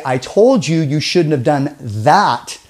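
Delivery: slow, "told" pressed and falling; slow measured read of "told"; another stress take. Shown as a demonstration. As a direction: take it slowly, weight on "told". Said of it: "that means something entirely different".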